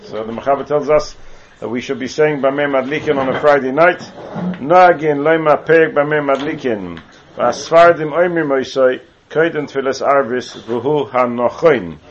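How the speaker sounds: slow, measured reading of the Hebrew source text. Acted. Teacher reading the source aloud to students, slow and measured. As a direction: lay out each phrase of the text slowly.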